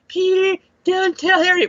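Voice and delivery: high, strained dying gasp; overacted death scene. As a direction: ham up a dying villain's last words.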